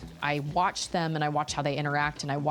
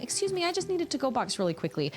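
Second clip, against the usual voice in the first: polite; 8 semitones higher, faster than usual. Retold or imitated. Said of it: "You're being really polite".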